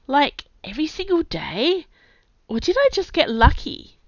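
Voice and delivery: gasping between words; panting. A narrator's reading. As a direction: still out of breath. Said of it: "Kai panted".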